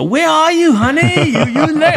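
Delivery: put-on high-pitched Thai-accented English; wife's Thai accent. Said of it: "That fucking accent's great".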